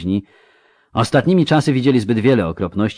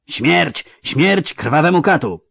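high shouted death cry, pitched up; battle cry; 8 semitones higher, slower than usual. A narrator's reading. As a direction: hurl it as a war cry. Assassins shout war cry. (okrzyk bojowy, wysoki i głośny)

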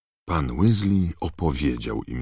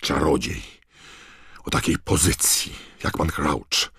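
pompous; 3 semitones higher, 5 dB louder than usual. A narrator's reading. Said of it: "oświadczył Percy pompatycznie".

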